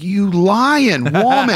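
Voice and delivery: high, slow, drawn-out scolding; mock-indignant yell at mom; mock accusation. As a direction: scold the photo in playful outrage. Mock scolding of mother's photo.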